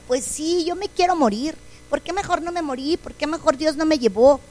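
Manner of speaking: put-on a hurt child quietly wishing it were over; softly voicing her child self in despair; sad little girl. Child wishing to die, retold.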